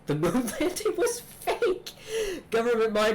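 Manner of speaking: very high, slow crackpot voice breaking into a laugh; conspiracy nut voice. Acted. Conspiracy nut revealing secrets, high and laughing. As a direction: giggle through the big secret, way up high. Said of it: "he talks like this".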